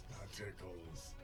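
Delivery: drawn-out, low mockery; mocking enemy. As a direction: shrug off the blow in a villain's voice. Struck enemy mocks the attack.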